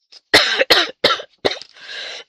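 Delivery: harsh hacking cough; real coughing fit. Real, not acted. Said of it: "je tousse".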